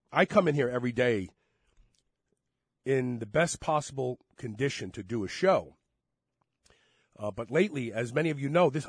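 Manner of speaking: congested, stuffy-nosed voice; talking through a head cold; blocked nose. Real, not acted. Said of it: "As you can hear, my voice is still".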